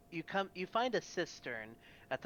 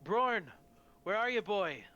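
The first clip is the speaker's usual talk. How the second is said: haunting voice; 5 semitones higher, 6 dB louder than usual. A narrator's reading. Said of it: "you hear a whispering voice say".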